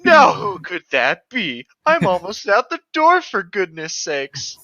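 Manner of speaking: annoyed. Acted. Reading annoyed character line.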